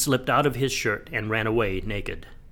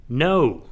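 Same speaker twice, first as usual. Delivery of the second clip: firm, louder NO with a swelling fall; emphatic denial; 3 semitones higher, 5 dB louder than usual. A narrator's reading. Peter denying he would desert Jesus, emphatic. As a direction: declare it emphatically, pitch arched. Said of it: "Peter declared emphatically".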